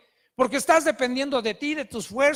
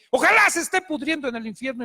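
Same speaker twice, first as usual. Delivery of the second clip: retold angry curse; 3 semitones higher, 4 dB louder, faster than usual. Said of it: "yo tomé un coraje hacia esa persona".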